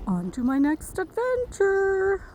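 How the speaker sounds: high whispered dog voice, slow; dog's inner voice. Retold or imitated. Dog sitter voicing the dog leaving, high slow whisper. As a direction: breathe it out like a dog off on an adventure. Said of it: "he's like".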